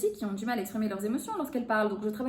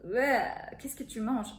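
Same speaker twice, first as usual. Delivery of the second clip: disgusted; slower than usual. Shown as a demonstration. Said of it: "Là, je suis dégoûtée".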